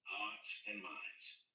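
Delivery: "Hearts" stretched out slowly, falling at the end; slow, deliberate hearts and minds. Retold or imitated. Reminding himself to stay patient, slowly. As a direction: repeat it to yourself slowly, like a mantra. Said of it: "I told myself".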